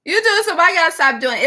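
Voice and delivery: put-on high, fast childish talk-back; mock child voice arguing with mom; sassy kid. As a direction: squeak back at mom like a smart-mouthed kid. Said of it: "And I was like".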